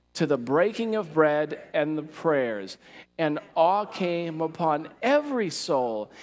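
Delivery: aha-moment reading. Shown as a demonstration. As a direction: read it like the light bulb is going on. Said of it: "emphasize it in a way that's like an aha moment".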